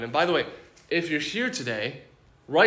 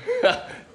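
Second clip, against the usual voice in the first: short, high chuckle; a brief laugh of dismissal; amused scoffing laugh. Acted. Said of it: "He who sits in the heavens laughs".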